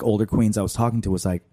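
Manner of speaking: usual speaking voice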